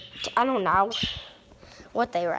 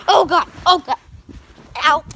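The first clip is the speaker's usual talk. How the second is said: loud, high, laughing oh God; excited shriek; 5 semitones higher, 9 dB louder than usual. Real, not acted. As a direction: squeal on the fast slide. Going down fast slide.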